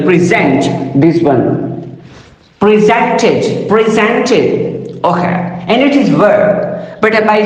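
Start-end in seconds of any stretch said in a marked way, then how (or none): 0.0-1.0 preSENT, last syllable stressed; stress on second syllable. Shown as a demonstration. Lecturer pointing out the verb's stress, preSENT stressed on the second syllable. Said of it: "emphasis is given to the next syllable". 2.6-5.0 preSENTed, middle syllable leaned on; stress on second syllable. Shown as a demonstration. Lecturer drilling the verb for learners, preSENTed stressed on the second syllable. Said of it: "emphasis is given to the next syllable".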